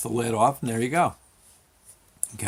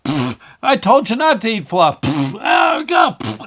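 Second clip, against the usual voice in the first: sputtering cry; 9 semitones higher, 7 dB louder than usual. Retold or imitated. Kid sputtering and crying.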